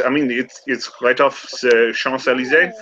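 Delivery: lightly French scholar; a hint of a French guide; French accent. Remy giving directions, light French accent. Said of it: "I keep going German".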